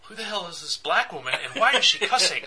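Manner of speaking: imitating a baffled friend, building to exasperation; hammed-up confused protest; mock bewilderment. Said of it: "I'm so confused".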